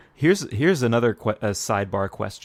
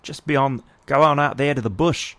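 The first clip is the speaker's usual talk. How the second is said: louder, higher mock Aussie; attempted Australian accent; 4 semitones higher, 5 dB louder than usual. Co-host joins in as Australian.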